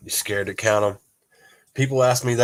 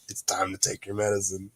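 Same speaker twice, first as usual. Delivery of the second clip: firm wife; 3 semitones lower, 8 dB quieter than usual. Retold or imitated. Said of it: "She was like".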